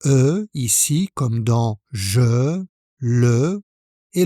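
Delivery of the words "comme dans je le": "je" and "le" drawn out slowly on the E sound; vowel demo. Shown as a demonstration. Teacher to learner, isolating the E sound: slow, stretched. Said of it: "on a le son E ici".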